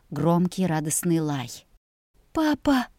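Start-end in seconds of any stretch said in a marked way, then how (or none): none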